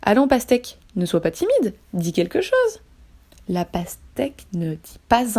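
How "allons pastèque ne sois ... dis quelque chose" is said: gentle, coaxing tone, a lift at the end; coaxing gently. Acted. The king gently coaxes a silent watermelon. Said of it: "d'une voix plus douce".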